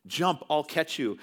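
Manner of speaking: retold urgent call. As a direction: call out to your son as a retelling. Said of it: "he's sailing to his son".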